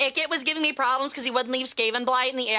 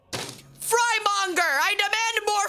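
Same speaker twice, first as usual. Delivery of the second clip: mock archaic lord; 7 semitones higher, slower than usual. Mock archaic demand for fries.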